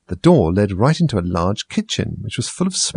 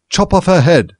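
barked order; 9 semitones higher, 6 dB louder than usual. A narrator's reading. Duchess barking order.

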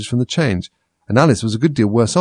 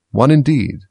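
indignant; 5 semitones higher, 5 dB louder, slower than usual. A narrator's reading. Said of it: "said the Dormouse indignantly".

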